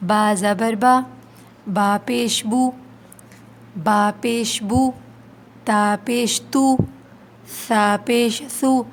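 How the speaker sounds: slow, careful drill of letters with pesh; slow drill recitation. Shown as a demonstration. Teacher drilling letters with her students, careful slow recitation. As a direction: sound out each syllable with rounded lips. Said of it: "ہم پڑھنا شروع کرتے ہیں".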